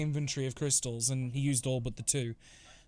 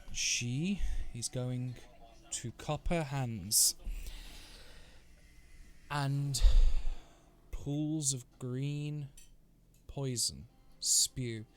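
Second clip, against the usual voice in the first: slow, measured narration with weighty pauses; game master's scene setting; much slower than usual. Acted. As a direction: draw out each phrase to build menace. Game master narrates villain's spell.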